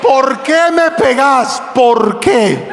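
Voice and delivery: slow, desperate shouted plea. Shown as a demonstration. Pastor demonstrating the thief's desperate cry. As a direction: show how the thief cried out. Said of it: "lo gritó con desesperación".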